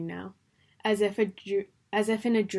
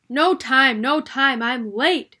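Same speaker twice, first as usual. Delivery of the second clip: high, loud hurried rabbit; frantic cry; 5 semitones higher, 13 dB louder, slower than usual. A narrator's reading. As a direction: cry out, panicked and late. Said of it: "cried the White Rabbit".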